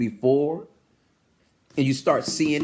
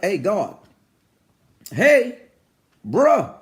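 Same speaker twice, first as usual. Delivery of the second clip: punchy, louder calls with pauses between; casual hailing; 5 dB louder, slower than usual. Acted. Preacher trying to get God's attention, casual punched calling. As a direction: hail God like a buddy not answering. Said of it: "like you would normally talk to a person".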